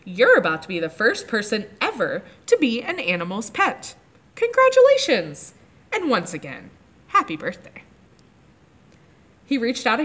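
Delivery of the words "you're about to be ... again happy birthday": polite. Acted. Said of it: "he spoke more politely than Lulu had done".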